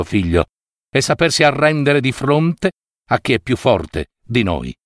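a touch of tenderness, lightly voiced father; gentle voice. Stag consoling his crying fawn, gentle fatherly voice. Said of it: "gli parlò con voce dolce".

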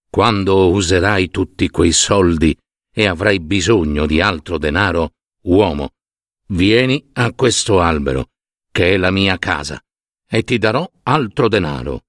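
low, measured python voice; kindly python. Acted. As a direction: speak low and evenly as the python.

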